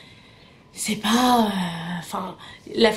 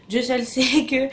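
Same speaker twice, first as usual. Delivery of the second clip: retry the phrase through a laugh; amused, slightly lifted second attempt; laughing at own stumble; 3 semitones higher, 3 dB louder than usual. Real, not acted. Vlogger retrying a phrase they tripped over, laughing. Laughing after fumbling the words.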